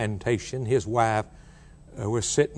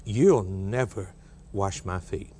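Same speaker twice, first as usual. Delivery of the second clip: rash refusal; 5 semitones lower, slower than usual. Acted. Peter refuses rashly.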